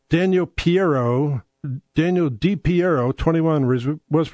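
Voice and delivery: careful news read, slowed; corrected news reading. Shown as a demonstration. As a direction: read the headline properly. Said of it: "No, they didn't".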